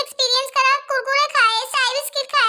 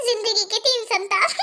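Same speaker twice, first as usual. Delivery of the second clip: Life के तीन संताप said slowly with a laugh; amused, slow aside; wry laughing remark; 5 semitones lower, slower than usual. Acted. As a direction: chuckle through जिंदगी के तीन संताप. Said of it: "सब समझ में आ रहा है मुझे".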